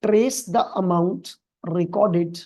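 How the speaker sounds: reads the English question out slowly and evenly; slow, careful reading of an exam question. Acted. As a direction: read each phrase of the question slowly. Reads the procedure aloud slowly.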